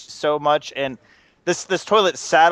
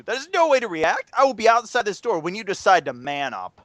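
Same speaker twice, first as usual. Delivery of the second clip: stern challenge; 5 semitones higher than usual. Retold or imitated. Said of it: "very calm to".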